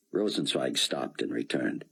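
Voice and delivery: ordinary delivery, nothing marked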